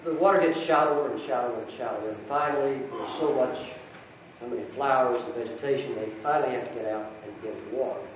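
a lightly voiced storybook reading with gentle lifts for each character; story narration. A narrator's reading. Speaker reading Narnia to the congregation, storytelling voice. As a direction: read it aloud like a bedtime story to a hall.

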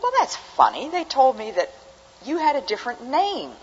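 put-on high-pitched, puzzled old lady; little old lady. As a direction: imitate an old lady who is politely baffled. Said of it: "a little old lady".

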